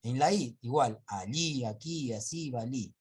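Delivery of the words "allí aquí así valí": allí, aquí, así, valí, each hit on the final "í"; stress on final syllable. Shown as a demonstration. Teacher reciting examples, final "í" stressed in allí, aquí, así, valí. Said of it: "la mayor fuerza de voz está en la última".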